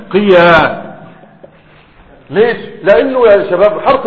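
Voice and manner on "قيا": قيا drawn out slowly, syllable by syllable; slow demo. Shown as a demonstration. Teacher to students slowly spelling out the dual form. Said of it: "تعالى لما نجيبه للمثنى".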